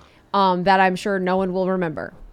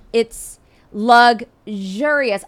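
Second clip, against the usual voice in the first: usual speaking voice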